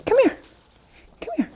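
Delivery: high sing-song call to a dog. Real, not acted. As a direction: coax the dog over, up high. Calling the dog sweetly.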